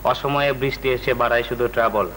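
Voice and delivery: reciting a rhyme. Acted. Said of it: "এইভাবে হতে পারে".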